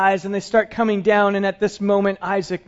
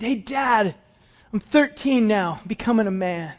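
put-on eager boy's voice, higher and bright with hope; voicing young Isaac; 4 semitones higher than usual. Preacher voicing Isaac asking his father for cattle, eager and higher.

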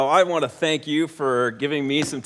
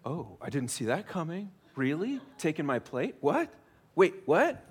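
mock disbelief; 6 dB quieter than usual. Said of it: "present day version of".

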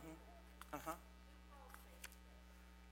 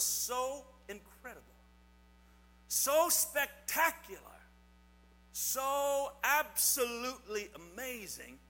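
building wonder; 3 semitones higher than usual. Real, not acted. Building up the Bible story.

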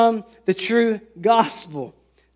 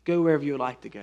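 smiling kind reply; 4 semitones lower, 5 dB quieter, much faster than usual. Retold or imitated. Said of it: "he just smiles at her and says".

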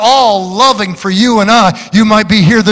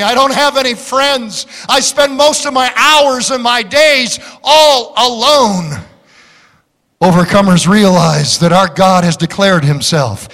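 ordinary talk

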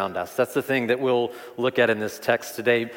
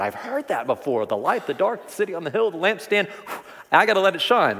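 jaded churchgoer; 5 semitones higher than usual. Retold or imitated. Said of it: "Maybe we're just used to it".

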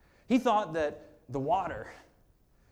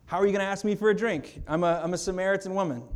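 higher, louder, fast disbelief; mock astonished protest; a touch of a startled Samaritan woman; incredulous woman; 4 semitones higher, 4 dB louder, faster than usual. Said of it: "And she says".

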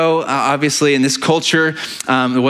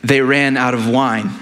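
quick, lightly mimicked mother repeating herself; mock exasperated mother. Pastor imitating Mary repeating herself to Jesus, lightly exasperated. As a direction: playfully voice Mary nudging her son. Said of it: "It was like".

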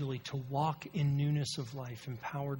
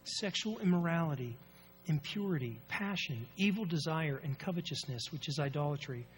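scripture reading. Real, not acted. Reads scripture aloud.

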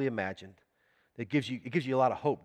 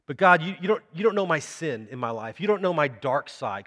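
imagined protest; 2 semitones higher, 5 dB louder than usual. Retold or imitated. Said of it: "here's what you're thinking in your head".

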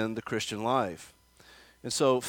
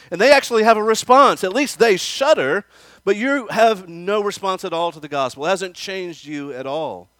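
much higher, loud scathing tirade that fades at the end; humiliating rebuke; 6 semitones higher, 8 dB louder than usual. Acted. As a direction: tear into the critics, building to a shout. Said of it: "to humiliate these people".

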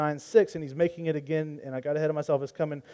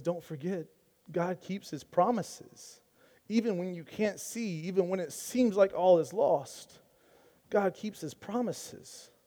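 quiet reassurance; 2 semitones higher, 5 dB quieter than usual. Retold or imitated. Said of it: "And he says".

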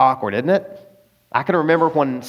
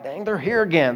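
annoyed; 3 semitones higher, 4 dB quieter than usual. Acted. Debtor spots the lender at church, annoyed. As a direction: grumble it lightly to yourself. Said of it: "You're annoyed by them".

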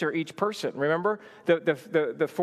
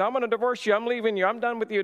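higher-pitched mock ultimatum; mock divorce threat; 5 semitones higher, faster than usual. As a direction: rattle off pretend threats to a spouse. Acts out threat he disowns.

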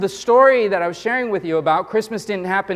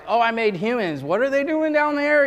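higher, puzzled; mock baffled God; 4 semitones higher than usual. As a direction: play God caught off guard, hammed-up.

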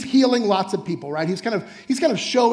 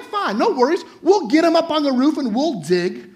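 breezy friends; 5 semitones higher than usual. Pretend. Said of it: "They're like".

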